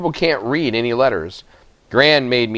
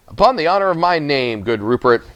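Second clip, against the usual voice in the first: oily voice; 4 semitones higher than usual. Acted. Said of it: "the miller said in his oily voice".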